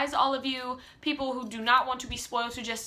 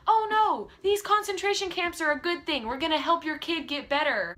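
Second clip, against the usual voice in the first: mock reassurance; 5 semitones higher than usual. Mocking government reassurance to parents.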